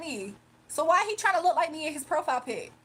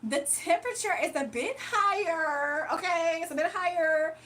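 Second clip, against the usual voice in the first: news reporter voice. Acted. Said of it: "news reporter voice".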